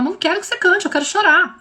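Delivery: daughter's protest. Retold or imitated. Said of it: "ela fala".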